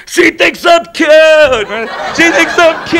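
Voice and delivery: high, excited dopey reindeer voice; giddy Rudolph. Retold or imitated. Rudolph flying around after meeting Clarice, high giddy squeal. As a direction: squeal it like a lovestruck kid. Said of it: "he's flying around going".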